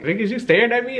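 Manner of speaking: lightly voiced confronting woman; her challenge. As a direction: play her catching him staring. Girl confronts him staring.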